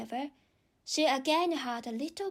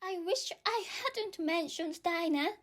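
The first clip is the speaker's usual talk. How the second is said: melancholy; 6 semitones higher than usual. A narrator's reading. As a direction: sigh it to yourself in regret. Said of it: "in a melancholy tone".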